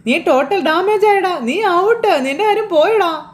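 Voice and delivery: high, slow teasing sing-song; mocking taunt. Taunting Sreekanth that his game is up, in a high mocking voice. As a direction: rub it in like a gloating sibling. Shruthi mocks Sreekanth after exposure.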